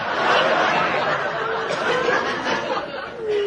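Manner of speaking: high unvoiced wheeze of laughter; breathless giggle; wheezing laugh. Wild laughter at threat.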